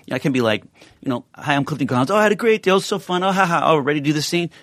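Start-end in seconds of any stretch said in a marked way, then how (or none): 1.3-2.1 bright high fake-friendly chatter, much higher; high mock-chipper voice. Shown as a demonstration. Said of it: "I might use a different voice". 2.1-3.6 bright high fake-friendly chatter, much higher; high mock-chipper voice. Shown as a demonstration. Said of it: "I might use a different voice". 3.6-4.5 bright high fake-friendly chatter, much higher; high mock-chipper voice. Shown as a demonstration. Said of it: "I might use a different voice".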